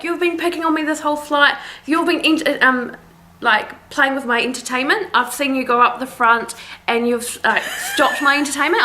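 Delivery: a hint of a whining drunk; whiny drunk passenger. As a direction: lightly mimic the petulant passenger. Imitating passenger's complaints.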